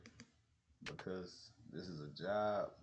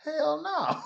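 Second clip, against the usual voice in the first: much higher, loud blurt; emphatic no; 12 dB louder than usual. Retold or imitated. Coworker blurting out loudly, emphatic no. Coworker admits hating job.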